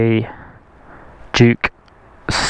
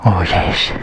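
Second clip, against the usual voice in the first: deep doggy voice; 7 semitones lower than usual. Pretend. Deep answer in dog voice.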